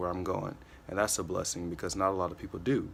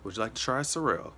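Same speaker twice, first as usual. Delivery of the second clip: much higher, louder chirpy server welcome; eager waiter greeting; 7 semitones higher, 6 dB louder than usual. Retold or imitated. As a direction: greet the table chasing the tip. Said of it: "that routine and that momentum".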